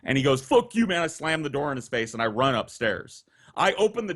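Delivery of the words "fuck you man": louder, higher mock outburst; imitated angry retort. Drunk boyfriend told to go home, imitated angry shout.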